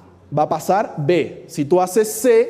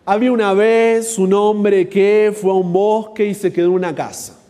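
storyteller opening; 3 semitones higher, 4 dB louder than usual. Acted. Example story opening being dictated.

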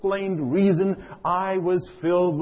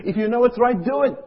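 higher, louder punch on "do it"; preaching emphasis; 7 semitones higher, 5 dB louder than usual. Real, not acted. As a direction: drive the point home. Preaching climax.

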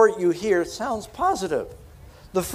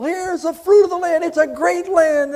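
much higher and louder, beaming; jubilant announcement; 13 semitones higher, 6 dB louder than usual. Acted. Joshua and Caleb show the people the fruit, jubilant. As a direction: show off the bounty with joy. Spies tossing grapes to people.

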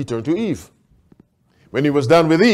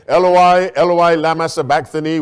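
raised, louder scripture quote; loud cry; 2 semitones higher, 5 dB louder than usual. Retold or imitated. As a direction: call it out as Jesus' cry from the cross. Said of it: "loud voice".

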